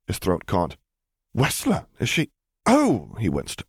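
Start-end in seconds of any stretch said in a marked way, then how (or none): 1.4-2.3 Piet. Acted. Piet voiced. 2.7-3.2 Justice. Acted. Justice voiced.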